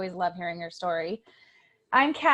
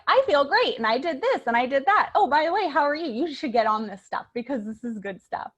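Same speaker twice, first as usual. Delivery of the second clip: much higher, much louder, bubbling over with joy; raving about how great she feels; gushing mom; 6 semitones higher, 7 dB louder than usual. Retold or imitated. Mom gushing to every caller, overjoyed and loud. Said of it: "she's like".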